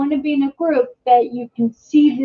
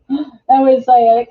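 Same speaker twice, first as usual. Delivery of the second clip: a real pained laugh, a bit louder; laughing through pain; 5 dB louder than usual. Real, not acted. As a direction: laugh it off while it hurts.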